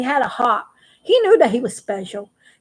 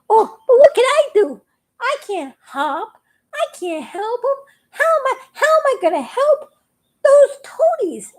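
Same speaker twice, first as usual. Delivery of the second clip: high tearful fretting, slowing at the end; panicking frog; 10 semitones higher than usual. A narrator's reading. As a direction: wail helplessly in a high voice. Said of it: "Froggy is panicking".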